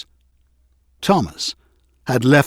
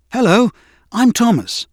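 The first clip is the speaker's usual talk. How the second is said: put-on high, bright young engine voice; a lightly voiced eager little engine; cheerful little engine; 9 semitones higher, 3 dB louder than usual. A narrator's reading. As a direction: greet him brightly as eager Thomas. Thomas voiced in story.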